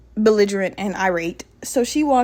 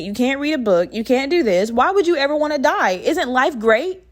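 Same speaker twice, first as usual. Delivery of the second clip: sarcastic reassurance. Retold or imitated. Staff asking a patient why they'd want to die, sarcastic. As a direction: feign sweet disbelief, rising into sarcasm.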